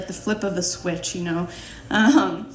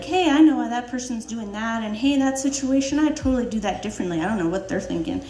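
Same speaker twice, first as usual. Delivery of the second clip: know-it-all; 2 semitones higher than usual. Retold or imitated. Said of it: "I'll be like".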